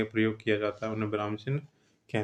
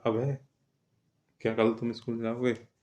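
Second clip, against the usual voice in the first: "अब है" set apart, a beat, then the question; short pause. Shown as a demonstration. Teacher demonstrates the comma to students, pausing after "अब है". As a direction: hold briefly after "अब है" before "क्या कल तुम school जाओगे". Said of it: "थोड़ी देर रुके हुआ है".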